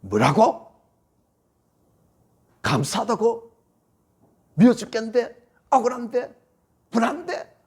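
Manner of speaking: the hurt inside snapping back in protest; indignant inner voice. Acted. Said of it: "하면서 막 올라오는 거예요".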